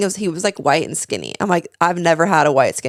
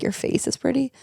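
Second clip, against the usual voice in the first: mock backhanded compliment; 8 semitones higher, 6 dB quieter than usual.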